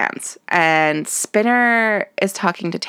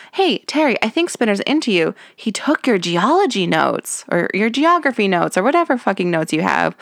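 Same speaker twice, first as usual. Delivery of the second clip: Ashley impression. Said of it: "came up to Terry and was like".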